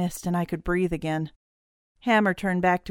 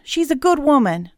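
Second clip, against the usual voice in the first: high, loud warning; protective yell; 8 semitones higher, 8 dB louder than usual. Acted. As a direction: yell it out to defend her. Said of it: "he yelled".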